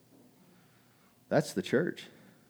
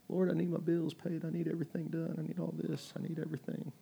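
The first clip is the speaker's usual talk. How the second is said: mock whiny prayer; 3 semitones higher, 12 dB quieter than usual. Mock prayer of comfort seeker.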